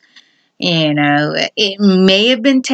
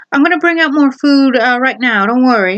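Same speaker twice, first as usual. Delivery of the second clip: lightly put-on higher housewife voice; female voice; 5 semitones higher than usual. Wife promising guests' food to husband, in a lightly put-on female voice. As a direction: pitch up a little for the wife. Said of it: "the female voice now".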